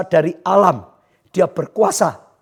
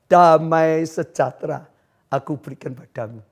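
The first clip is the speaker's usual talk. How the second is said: calm reassurance; 4 semitones lower than usual. Acted. God arrives, unlike Satan.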